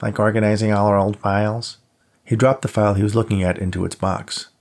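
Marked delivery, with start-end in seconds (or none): 0.0-1.8 pinched nose impression; whiny mocking imitation; whiny mimic. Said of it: "mimicked Emily's question in a whiny voice".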